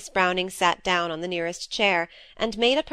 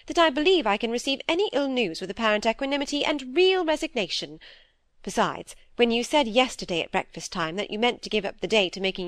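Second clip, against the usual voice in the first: a lightly voiced stern older sister, a bit raised; stern elder sister; 2 semitones higher than usual. Dorothy lecturing Phoebe about her sighing, lightly voiced stern scolding. Miss Browning answers sternly.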